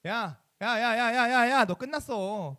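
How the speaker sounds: a loud run of drawn-out taunting calls; gloating arrogance. Acted. Gentiles taunting Israel that its time is over, gloating. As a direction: crow over a fallen rival. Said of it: "이런 마음에 교만과 자만함이 생길 수 있을까".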